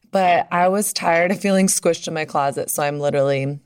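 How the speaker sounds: muffled under a towel; towel over head, muffled. Real, not acted. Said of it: "recording this for you with a towel over my head".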